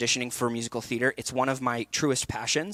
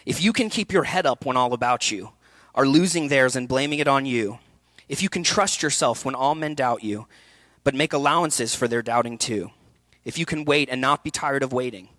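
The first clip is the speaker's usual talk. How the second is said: poem reading. Acted. Coach reading Kipling's poem to students, measured recital. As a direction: read it like a ballad's words. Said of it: "I'm gonna read it to you guys".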